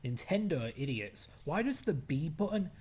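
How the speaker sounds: annoyed outburst at game; exasperated complaining; frustrated ranting. Real, not acted. Gamer raging at game controls.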